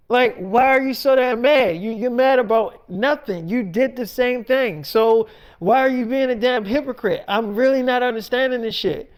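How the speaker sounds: acted, exasperated argument; indignant daughter. Daughter calling her mother out as a hypocrite, indignant. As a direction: argue back, mildly heated.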